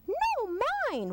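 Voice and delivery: very high whine; whiny flea. Acted. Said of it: "whined the flea".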